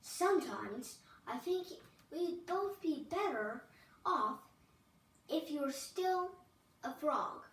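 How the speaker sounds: loud, shouting princess in a rage; furious tantrum. Acted. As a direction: yell every complaint at him. The princess throws a fit.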